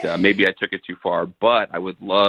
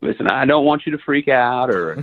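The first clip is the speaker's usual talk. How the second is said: lightly put-on film star voice; Matthew McConaughey. Caller explains himself to his date, still lightly doing McConaughey. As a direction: keep up a light McConaughey act. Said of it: "I'm just doing this voice".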